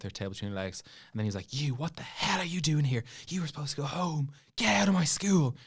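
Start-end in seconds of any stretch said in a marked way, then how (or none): 1.5-5.6 higher stern voice, rising at the end; principal ordering out. Retold or imitated. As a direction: play the principal as he throws the kid out. Principal throwing student out, retold.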